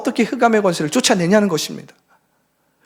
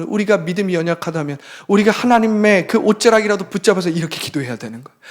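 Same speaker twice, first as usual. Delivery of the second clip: usual speaking voice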